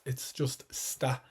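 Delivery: está said as "sta", the first E swallowed; quick "sta" for está; dropped e. Shown as a demonstration. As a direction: let the E of está vanish, just "sta". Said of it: "sound like that E isn't there".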